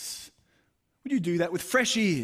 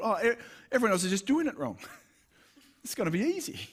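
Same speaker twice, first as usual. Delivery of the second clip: naive confidence; 5 semitones higher, faster than usual. Retold or imitated. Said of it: "I thought".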